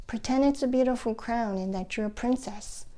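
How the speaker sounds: persuasive, lightly voiced therapist; coaxing therapist. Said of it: "The therapist tried to entice me".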